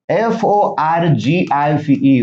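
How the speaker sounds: आर ई ए एल आय झेड ई, each letter said slowly and separately; spelled out letter by letter. Shown as a demonstration. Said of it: "spelling the word out". (अक्षर अक्षर सावकाश सांगणे)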